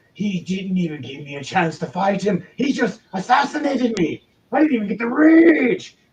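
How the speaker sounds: furious barbarian voice, loud, rising, rage stretched. Voicing a barbarian glaring at the player: raging barbarian voice. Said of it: "He is giving you the ragiest look".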